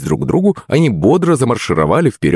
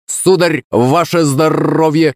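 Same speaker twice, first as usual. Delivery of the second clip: higher, slow squawking toast; parrot call; 9 semitones higher, slower than usual. A narrator's reading. Parrot toasts the drunks with their vodka, squawked. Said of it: "закричал попугай".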